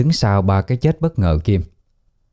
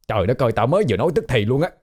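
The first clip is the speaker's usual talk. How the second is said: higher, quick exasperated scolding; acted grumbling disbelief, pitched up; exasperated ghost; 3 semitones higher, faster than usual. Ghost scolding a forgetful visitor, exasperated.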